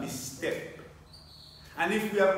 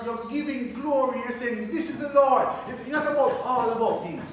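raised, higher-pitched sermon delivery; impassioned preaching; 5 semitones higher, 4 dB louder than usual. Real, not acted. Preacher urging believers to give their own testimony, impassioned preaching. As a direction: drive the point home to the congregation.

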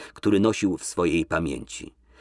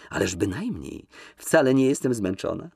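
lively protest; 3 semitones higher than usual. Acted. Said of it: "Zaprotestowała żywo".

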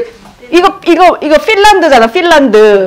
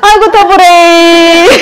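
hammed-up Gyeongsang complaint, higher and drawn out; Gyeongsang grandma; 5 semitones higher, 4 dB louder than usual. Teacher imitating Gyeongsang elders complaining of heat. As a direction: sigh 아이고 더블레이 like an old Gyeongsang lady. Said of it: "더블레이 하잖아요".

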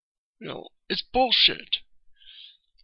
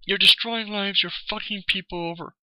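angry accusation; 3 semitones higher than usual. Real, not acted. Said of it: "but I'm just pissed off".

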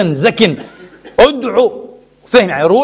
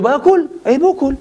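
incredulous mock echo; 8 semitones higher than usual. Mocking repeat of Muawiya's excuse.

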